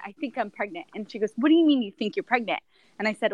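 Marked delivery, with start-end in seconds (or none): 0.1-0.9 hedged I think I'm pregnant, quieter; softer hesitant version; tentative, softer. Retold or imitated. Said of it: "well, I, I said". 1.4-2.6 incredulous friend. Retold or imitated. Friend questions her news.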